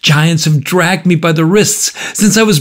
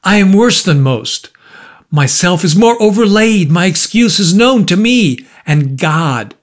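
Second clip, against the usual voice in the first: high, impassioned outpouring; cried out; 6 semitones higher than usual. A narrator's reading. Markheim defending his life to the visitor, crying out. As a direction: plead your case in a raised, agitated pitch. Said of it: "cried Markham".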